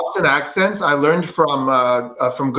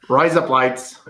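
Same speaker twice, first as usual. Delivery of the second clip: lower-pitched Australian "Rise up lights"; demonstrated Australian accent on "Rise up lights"; 4 semitones lower, slower than usual. Shown as a demonstration. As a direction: say "Rise up lights" as an Aussie "razor blades". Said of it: "razor blades in the Australian accent".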